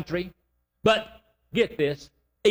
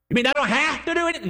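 incredulous question; 7 semitones higher, faster than usual. Retold or imitated. Imagined doubter questions.

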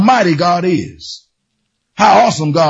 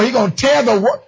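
fired-up preaching; 4 semitones higher than usual. Acted. Preacher whips the church up about God's power. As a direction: bring it home with joy.

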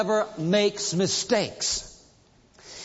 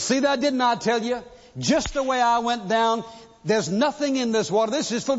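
smug told-you-so; 3 semitones higher than usual. Retold or imitated. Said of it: "He says".

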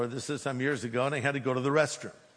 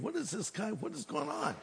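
hushed inner thought; 4 semitones higher, 9 dB quieter than usual. Retold or imitated. Inner thought about stranger.

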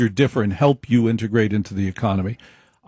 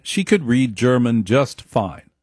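normal talking voice

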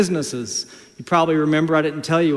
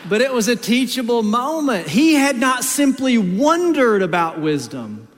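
preaching; 8 semitones higher, 4 dB louder than usual. Acted. Preaching over music.

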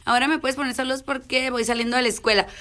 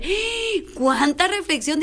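mock revelation; 4 semitones higher, slower than usual. Struck by daughter's wisdom.

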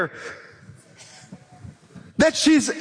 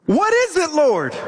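modern-day exasperated widow. Retold or imitated. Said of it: "Let me say that in a modern day way".

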